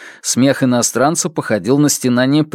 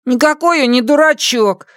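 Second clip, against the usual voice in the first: defensive; 14 semitones higher than usual. Acted. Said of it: "защищался я".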